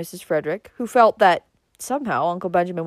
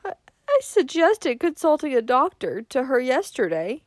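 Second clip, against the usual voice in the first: higher-pitched plaintive moan; 7 semitones higher than usual. A narrator's reading. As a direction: moan with a faltering start. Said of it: "moaned Missus Frederick".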